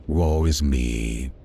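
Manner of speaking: slow, hammed-up lament of a drunk; slow mock-tragic moaning; drunken misery. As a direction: wail it out slowly like a miserable drunk. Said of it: "in all my drunken misery".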